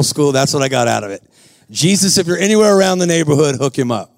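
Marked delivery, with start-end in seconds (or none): 1.7-4.1 casual prayer, dropping low at the end; lightly hammed-up plea to Jesus; mock deep prayer. Preacher replaying his Bible school prayer, mock-solemn prayer. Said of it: "That was my deep prayer".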